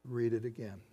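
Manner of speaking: soft, subtle prompting; little inner voice. Retold or imitated. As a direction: speak it quietly, like a voice within. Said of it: "I heard this little voice".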